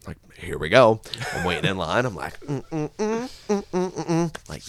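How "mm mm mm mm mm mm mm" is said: short, high, soft hums; pleased little hummed notes; gleeful humming. Retold or imitated. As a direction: hum in little high bursts. Acts childish glee before prank.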